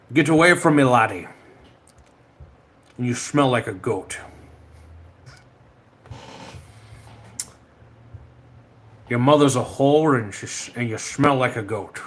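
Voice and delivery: hammed-up Scottish insult voice; Sean Connery. Streamer mock-insulting someone, in Scottish actor impersonation. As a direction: scold like a Scottish screen legend. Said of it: "talk like Sean Connery".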